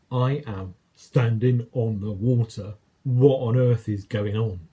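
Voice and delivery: slow, wondering, voice set apart; stunned disbelief. Acted. Peter standing on the water, amazed at himself, in slow disbelief. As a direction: marvel at it slowly, half to yourself.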